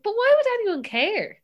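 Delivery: high-pitched puzzled challenge; retold incredulity. Dad doubting Twitter to daughter, high and incredulous. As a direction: question it high, imitating a baffled parent.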